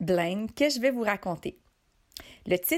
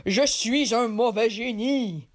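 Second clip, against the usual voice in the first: evil genie. Acted. Giant genie voice.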